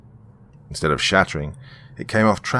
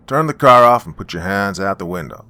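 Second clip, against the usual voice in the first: officer's order; 6 dB louder than usual. Acted. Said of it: "the officer ordered".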